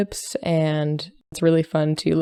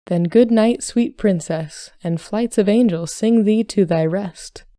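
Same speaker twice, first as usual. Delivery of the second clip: raised, theatrical recitation; Hamlet recitation; 3 semitones higher than usual. Acted. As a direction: declaim it like Hamlet. Son recites Hamlet farewell.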